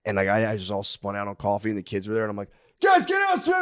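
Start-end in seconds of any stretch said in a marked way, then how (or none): 2.8-3.5 high-pitched retold parent's scream. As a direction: yell at the kids to clear out. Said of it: "I'm just screaming".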